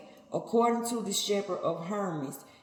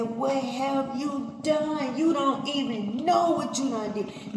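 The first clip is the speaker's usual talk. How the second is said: lightly raised, rebuking God voice; a hint of God scolding Cain; 5 semitones higher than usual. Preacher speaking as God to Cain, mild rebuke. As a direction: scold him gently but firmly, as God.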